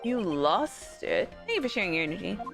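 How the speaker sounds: mock serene. Mock spiritual aside, slow.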